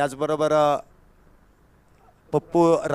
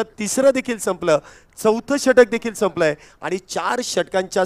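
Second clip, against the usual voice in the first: slightly raised match-commentary voice; live cricket commentary; 3 semitones higher, 3 dB louder than usual. Acted. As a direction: announce the score to the crowd. (Cricket समालोचन)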